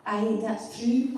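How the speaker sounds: slow, drawn-out Scottish aye; Scottish accent. Pretend. A Scotsman agreeing with his friend, in a slow Scottish accent. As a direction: agree slowly like an old Scot. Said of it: "I like your Scottish accent".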